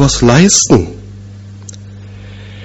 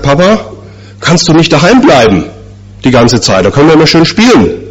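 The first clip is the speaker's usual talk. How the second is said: put-on childlike and pleading, pitched higher, quicker at the end; little boy pleading; 5 semitones higher than usual. Boy asks his father to stay home, childlike plea. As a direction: beg like a small boy who wants his dad home. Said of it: "habe ich ihn mal gefragt".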